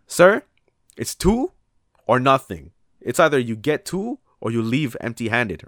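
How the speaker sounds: mock high, loud firm refusal; imitating the manager. Manager telling the tourist two or nothing, loud mock firmness. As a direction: belt it out like a fed-up manager.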